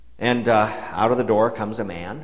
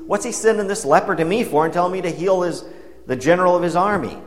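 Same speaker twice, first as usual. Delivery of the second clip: upset king; 5 semitones higher than usual. Retold or imitated. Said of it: "the king of Israel got all upset".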